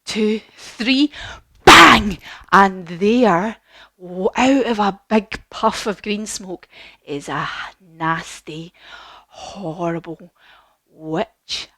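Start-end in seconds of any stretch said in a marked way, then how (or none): 1.6-2.2 loud shouted bang after a count; big punchy sound-effect shout; explosive bang. Shown as a demonstration. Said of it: "Can we do that?". 7.0-11.7 low, slow, soft menace; hushed, spooky storytelling; ominous. A narrator's reading. Storyteller introduces the wicked witch.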